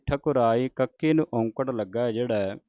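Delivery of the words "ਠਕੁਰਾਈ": ਠਕੁਰਾਈ with a short u after the k; careful thakurai. Shown as a demonstration. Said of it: "ਇਹ ਉਚਾਰਨ ਹੋਣਾ ਹੈ ਠਕੁਰਾਈ". (ਠਕੁਰਾਈ ਸ਼ੁੱਧ ਉਚਾਰਨ)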